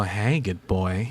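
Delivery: slow, cooing praise as to a dog; slow cooing "Hey, good boy"; coaxing good boy. Retold or imitated. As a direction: coo it slowly like praising a pet. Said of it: "you go".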